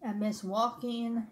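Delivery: speaking between bites; chewing while talking. Real, not acted. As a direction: mouth partly full of food. Seen 2: Bite taken at -3; closed, working lips around +1.3 to +1.6.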